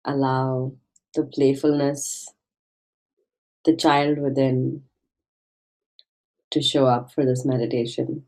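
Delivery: gentle meditation guide with long pauses; guided meditation. Acted. Meditation guide invites listeners to find their childlike playfulness, gentle guiding voice. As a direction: ease listeners inward, leaving space between phrases.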